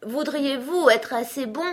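high, breathless request; panting. A narrator's reading. Alice begs the running king to stop, panting. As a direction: ask politely while winded. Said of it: "dit Alice d'une voix haletante".

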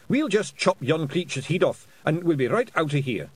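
high, loud Scottish warrior voice; Feegle voice. A narrator's reading. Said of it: "said Rob Anybody".

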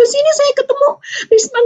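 high-pitched weepy retelling; imitated tearful mother. Mother asking to see her son-in-law, imitated as tearful. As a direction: say it high, as a crying mother would. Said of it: "sambil nangis, bilang".

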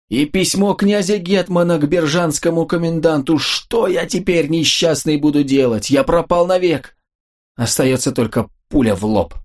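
terrified cry. Acted. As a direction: cry out in horror at his loss. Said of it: "крикнул страшным голосом". (в ужасе, отчаянный крик)

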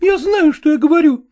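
high, reproachful woman's voice; jealous wife. A narrator's reading. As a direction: accuse him in a high woman's voice. (высокий упрёк ревнивой жены)

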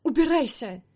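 high, loud furious order to leave; angry yell. Acted. Angry outburst at Nick.

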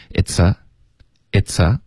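"it's a" run together as one word; linked pronunciation. Shown as a demonstration. English teacher showing learners the liaison, linked and slow. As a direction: link "it's a" slowly, no gap before the a. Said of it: "开头的it's跟a要连读".

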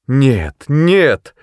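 high, loud, shrieked refusal; screaming. A narrator's reading. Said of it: "вопила мать".

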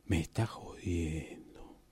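shocked whisper. Acted. Shocked aside on phone.

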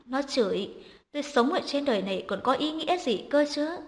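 mild, hammed-up wail of self-pity; lightly acted crying complaint to her son; mock wailing lament. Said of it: "vừa vỗ đùi vừa gào khóc".

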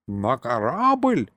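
ordinary delivery

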